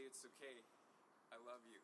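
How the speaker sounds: softening, lowering voice with pauses; tender reassurance. Acted. Friend comforting James after the yell, tender reassurance. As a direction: settle gently into a quiet close.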